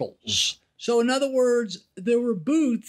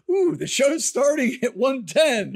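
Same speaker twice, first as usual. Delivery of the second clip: carnival barker; 3 semitones higher than usual. Retold or imitated. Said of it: "carnival barker voice".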